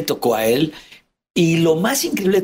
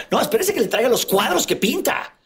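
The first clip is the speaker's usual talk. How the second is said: imitating dad; 7 semitones higher than usual. Father voiced, proud, to guests.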